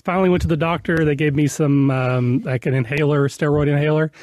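slightly weak, off-sounding voice. Real, not acted. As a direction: talk with a worn weak voice. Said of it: "I have a bit of a weak voice".

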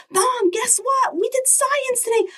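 put-on a kid bursting to share news; excited child. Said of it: "speaking with excitement in your voice".

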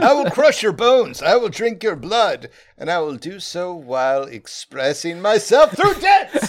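booming high barbarian threat, laughing. Acted. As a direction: roar it like a dancing barbarian. Player voices vicious fancy character.

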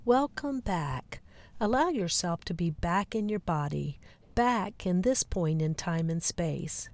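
unhurried meditation guide, leaving pauses; guided meditation. Acted. Host bringing listeners back into the body, guided meditation. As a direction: ease them gently back, phrase by phrase.

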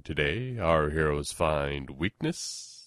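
put-on old-time radio sponsor voice; radio announcer read. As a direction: set up the episode like a serial. Sponsor read and scene lead-in.

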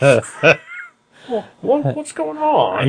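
high, loud, slow comic-hero voice; Wolverine voice. Retold or imitated. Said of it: "That's my Wolverine impression".

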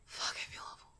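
whispered, miserable groan of words; hungover whisper. Acted. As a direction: moan it under breath.

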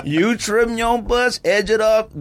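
high, slow, laughing through the words; cracking up mid-ad while insisting; laughing high-pitched and slow. Real, not acted. Laughing high during ad read.

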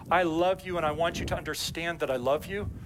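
earnest, deliberate declaration of love; mean every word of it; sincere, heartfelt I love you. Shown as a demonstration. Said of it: "as to whether or not I'm saying".

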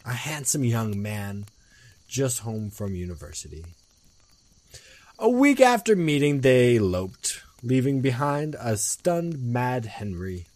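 dramatic storyteller reading aloud; story narration. A narrator's reading. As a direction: read it as a spooky tale.

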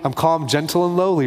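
lightly voiced soothing calm, pitch up a touch; hammed-up gentleness for a sarcastic point; mock gentle. Imagined Jesus soothing the crowd, mock gentle. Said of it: "set it down real soft".

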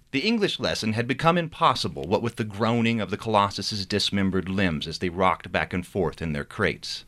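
reading his novel aloud with character voices; story narration. A narrator's reading. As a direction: tell the chapter like a storyteller. Author reads novel chapter aloud.

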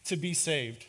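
slow, drawn-out plea; understated desperation, words stretched out; mild anguished cry. Acted. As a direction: cry it out slowly, in mild despair. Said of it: "as he cries".

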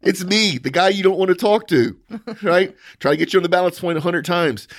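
high-pitched, mock-friendly gloating; gloating taunt. Gloating at the absent opponent.

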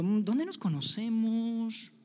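lightly hammed-up puzzlement; mock puzzled God. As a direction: play a forgetful host who can't place a name. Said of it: "no es como que si Dios estuviera diciendo".

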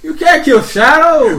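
loud, high, slow orc retort; orc guard. Acted. GM's orc guard loudly scoffing at the player's claim. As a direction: scoff at him like a dim orc.

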